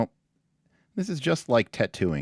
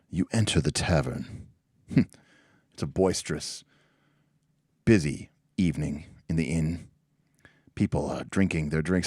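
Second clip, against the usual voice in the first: game master narration; 2 semitones lower than usual. Acted. Game master setting a tavern scene for players, measured narration.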